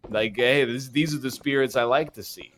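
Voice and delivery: mock creep. Ghost hunter ogles an attractive spirit, mock creep. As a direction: imitate a creep admiring what he sees. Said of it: "like, a real creep about it".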